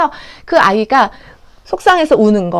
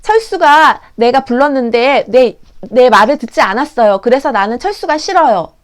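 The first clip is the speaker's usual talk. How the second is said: put-on child explaining feelings; 5 dB louder than usual. Child telling teacher a friend didn't listen, earnest complaint. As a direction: state the grievance like a little kid. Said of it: "아이가 그냥 단순히".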